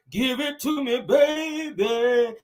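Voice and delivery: retold pool chat, mock diva belting; hammed-up sultry belt. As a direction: belt it like a diva about to break out. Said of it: "like she was about to break".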